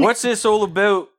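high, loud comic put-on voice; mock funny voice. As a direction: blurt it in a silly high voice.

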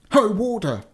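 high, hailing call; giant crying out. A narrator's reading. Giant hailing the castle warder, calling out. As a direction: call out to the gatekeeper. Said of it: "cried the giant when he came up".

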